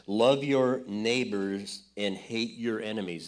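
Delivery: Love your neighbors and hate your enemies, drawn out slowly; slow solemn quote. Retold or imitated. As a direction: intone the old teaching slowly. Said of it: "the mindset of the religious community".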